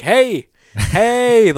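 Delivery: loud, high "hey" to get attention; calling out. Retold or imitated. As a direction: call out to someone far from the screen.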